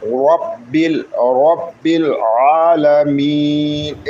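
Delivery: drawn-out chanted recitation, vowels held long; slow Quran recitation. Shown as a demonstration. Teacher modelling the verse for learners, slow chant. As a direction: chant slowly, stretching the vowels.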